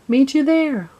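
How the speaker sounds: high, loud cheerful shout; storybook children calling out. A narrator's reading. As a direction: call across the rooftops to friends. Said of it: "the children called out".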